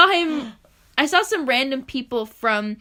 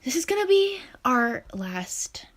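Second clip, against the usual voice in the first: whispered announcer voice. Acted. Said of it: "the monotone, calm voice".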